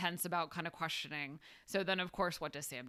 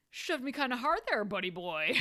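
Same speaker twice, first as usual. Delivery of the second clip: Dean impression; 4 semitones higher, 4 dB louder than usual. Dean's voice retold.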